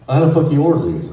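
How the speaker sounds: loud, high mock yell at the inmate; barking the question like an angry guard; retold guard yell. Guard demanding to know who ordered the pizzas, loud mock yell.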